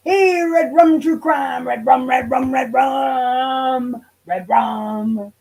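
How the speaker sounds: sing-song call to a viewer, drawn out. Real, not acted. Greeting a viewer named Red Rum in chat, sing-song call. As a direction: hail the chatter by name, playful.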